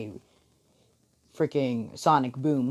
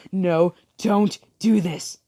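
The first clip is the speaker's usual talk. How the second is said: loud, high, slow plea; acted desperate shout; pleading shout; 6 semitones higher, 6 dB louder, slower than usual. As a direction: cry out to stop them, stretching each word. Voicing Uraraka pleading over the scream.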